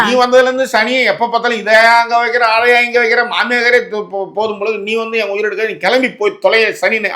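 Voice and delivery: acted daughter-in-law's exasperated rant; inner grumbling voiced aloud. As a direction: grumble about a mother-in-law in a running stream. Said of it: "பெண்களுடைய mind voice சத்தமா பேசுறீங்க". (மாமியார் மீதான புலம்பலை நடித்துக் காட்டுதல்)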